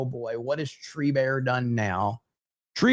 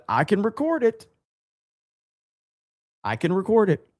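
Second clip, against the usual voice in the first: mock eager; 5 semitones higher than usual. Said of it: "I said".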